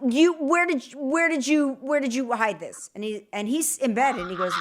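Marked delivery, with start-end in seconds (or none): 0.1-2.9 accusing demand. Retold or imitated. Accusing husband of a prank.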